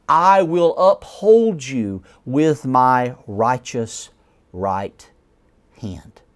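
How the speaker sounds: slow, deliberate reading, each promise weighted; slow scripture reading. Acted. Preacher reading God's promises to his congregation, slow and deliberate. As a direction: lay each promise down slowly. Isaiah verse read slowly.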